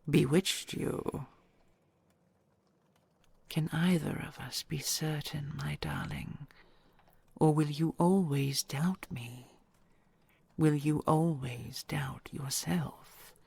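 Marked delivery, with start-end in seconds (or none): 3.5-13.3 hushed, intimate whisper to a loved one; tender whisper. Acted. Dragon whispering vows to her treasure.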